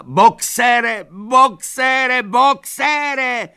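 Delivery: frantic high shout; desperate shout. A narrator's reading. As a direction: scream his name after the cart. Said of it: "křičela".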